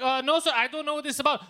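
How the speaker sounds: mock freaking out. Scam caller to his victim, mock freaking out. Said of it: "he starts freaking out".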